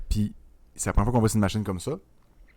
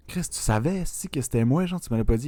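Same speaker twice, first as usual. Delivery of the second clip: high-pitched, indignant mock accusation; mock reproach; 6 semitones higher than usual. Acting out the hero confronting his friend, mock indignant reproach. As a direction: confront a friend who kept it from you. Acted reproach between film characters.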